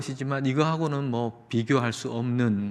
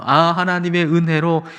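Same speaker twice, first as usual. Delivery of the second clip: slow, drawn-out hymn confession; measured, stretched lyric delivery; hymn recitation; slower than usual. Acted. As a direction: recite hymn verse, starting raised and easing down. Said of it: "찬송가 삼백십 장의 고백".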